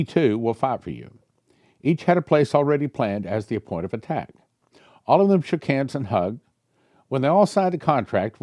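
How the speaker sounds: lightly heightened prophetic reading; reading prophecy aloud. Acted. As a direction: read the vision out like a revelation. Reads prophecy.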